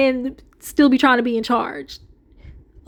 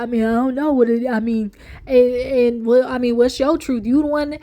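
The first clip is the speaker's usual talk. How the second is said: a lightly voiced evasive mumble; a hint of a sheepish husband stalling; mock mumbling Kirk. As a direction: hem and haw, dodging the question. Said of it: "his face looked so droopy, and he just looking off like".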